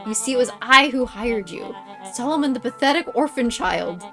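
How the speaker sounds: theatrical villain voice; villain monologue. Acted. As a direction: gloat like a storybook villain.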